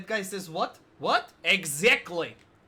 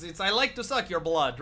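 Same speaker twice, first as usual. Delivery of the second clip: vampire voice; 3 dB louder than usual. Retold or imitated. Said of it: "people like who sound like this talk like".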